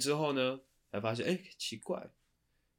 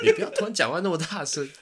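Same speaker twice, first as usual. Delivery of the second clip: laughing; 9 semitones higher, 11 dB louder than usual. Real, not acted. Laughing while scolding.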